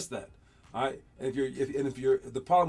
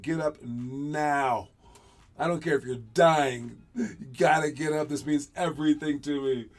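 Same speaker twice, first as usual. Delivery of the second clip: selfish demand; 5 dB louder than usual. Retold or imitated. The speaker imagining yelling at an injured teammate, a mild mock yell. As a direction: demand it, no sympathy. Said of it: "I would have been like".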